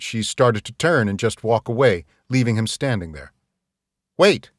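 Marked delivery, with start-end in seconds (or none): 4.2-4.5 calling out. Acted. Calling after a leaving girl.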